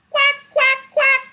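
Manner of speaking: high, sharp quacks; squawked-up duck impression; duck quacking. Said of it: "Ducks say".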